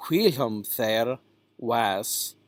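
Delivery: "whilom" with an ee sound, "hwee-lom"; "Whilom there was" in Chaucer's vowels; Middle English pronunciation. Shown as a demonstration. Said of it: "E sound if it's just the single I".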